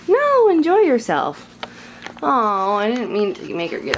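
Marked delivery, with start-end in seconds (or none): 0.1-1.6 talking to pet. Real, not acted. Talking to the cat.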